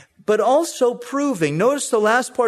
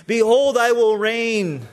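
mock thundering God; 3 semitones higher, 3 dB louder than usual. Shown as a demonstration. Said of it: "Doesn't say that".

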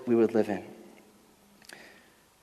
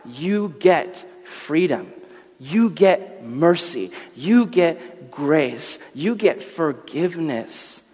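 very slow, each gift weighed out; solemn divine promise; much slower than usual. Acted. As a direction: speak as God offering grace, unhurried. God speaks his covenant.

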